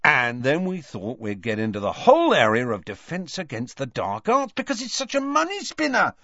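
high, eager sales patter; enthusiastic. A narrator's reading. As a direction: gush about the product line, pitch soaring. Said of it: "continued George enthusiastically".

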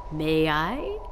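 measured, polite request; gently asking, unhurried; calm. A narrator's reading. Doctor asking for the headset, calm. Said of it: "asked the doctor calmly".

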